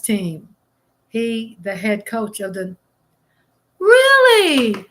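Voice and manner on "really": very high, loud really; genuinely stunned by the news; high stunned gasp of a question; shocked. Real, not acted.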